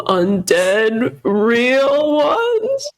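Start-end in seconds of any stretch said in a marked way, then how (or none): 1.2-2.9 high, eager excitement; excited voice. Acted. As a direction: sound thrilled at the idea. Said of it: "that was my excited voice".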